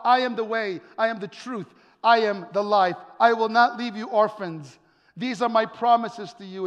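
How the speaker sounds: full-voiced preaching. Preacher quoting Jesus teaching his followers, proclaiming. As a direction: proclaim each promise firmly.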